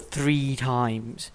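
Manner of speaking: "Three times" slow and punched; stressed repeat. Real, not acted. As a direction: hit each word of "Three times". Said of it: "Can I repeat that?".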